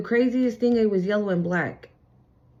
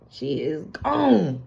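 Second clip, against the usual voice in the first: slow tearful emphasis; 4 semitones lower, much slower than usual. Real, not acted. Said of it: "emotional emphasis".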